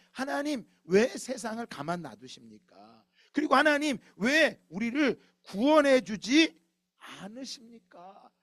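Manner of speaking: 높고 크게 천천히 부르짖다가 끝은 잦아들게; 하나님께 매달려 절규하듯; 외치는 기도. Acted. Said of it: "그래서 외치는 거예요". (하나님께 호소하는 선지자, 높고 큰 목소리로 천천히 외침)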